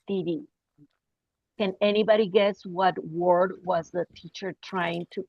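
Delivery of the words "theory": TIRI said with t in place of th; mispronounced THEORY. Retold or imitated. Baffled students repeating the teacher's word, mispronounced "tiri". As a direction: echo the odd word "tiri". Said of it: "he didn't have that sound in his language".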